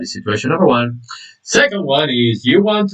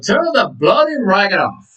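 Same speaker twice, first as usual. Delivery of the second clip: mock irritated demand in a raised pitch; higher-pitched, exasperated order; mild annoyance; 5 semitones higher than usual. Shown as a demonstration. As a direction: act fed up with the noise. Repeats the acted slang demand.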